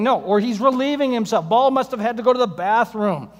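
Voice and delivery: sarcastic mockery. Preacher mocking Baal.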